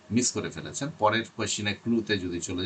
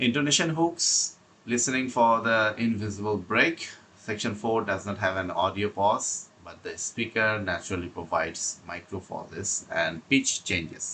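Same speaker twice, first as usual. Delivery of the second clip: slow, deliberate reading of prepared notes; slow read-aloud; much slower than usual. Acted. Teacher reading exam tips to students, slow and deliberate. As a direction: read each phrase out carefully, like a script.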